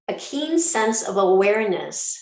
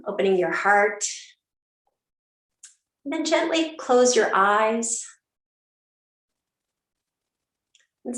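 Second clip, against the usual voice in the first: gentle guided-meditation delivery with long pauses; unhurried yoga teacher settling the class; 3 semitones higher than usual. Acted. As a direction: lead them into stillness, phrase by phrase. Leads opening meditation.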